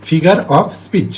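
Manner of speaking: "figure of speech" very slowly, word by word; slow, separated words. Shown as a demonstration. Teacher breaks down the term for students, slow and deliberate. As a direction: draw out "figure of speech" with gaps between words.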